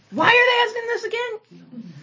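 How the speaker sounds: high, laughing mock complaint; exasperated laughing. Teacher voicing the group's frustration at the table, laughing. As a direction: throw up your hands and laugh. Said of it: "wanna throw up our hands like".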